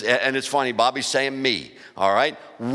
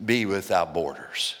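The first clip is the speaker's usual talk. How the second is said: lower, slow calm command; God's calm voice; 6 semitones lower, slower than usual. Acted. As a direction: speak it as God, gently. God speaks, quoted.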